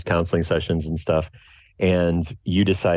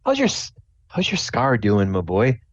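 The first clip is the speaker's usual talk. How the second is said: slightly higher-pitched inquiring dad; lightly voiced chatty dad; 8 semitones higher than usual. Dad asks about his boy's scar, lightly voiced dad. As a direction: check in casually as a dad. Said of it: "your dad starts chatting you up".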